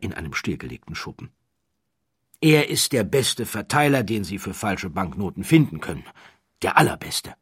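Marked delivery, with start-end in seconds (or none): 2.4-7.3 admiring quote. Acted. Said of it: "gibt Watts mit offensichtlicher Bewunderung zu Protokoll".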